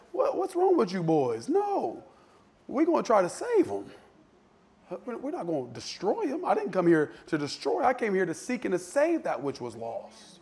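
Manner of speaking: put-on soft, patient correction of the boys; calm them down softly, like a kind teacher; gentle rebuke. Jesus gently rebukes his apostles.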